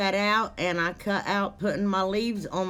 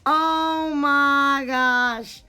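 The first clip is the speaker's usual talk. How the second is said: laughing; 6 semitones higher, 6 dB louder, much slower than usual. Real, not acted. Breaks up laughing at video.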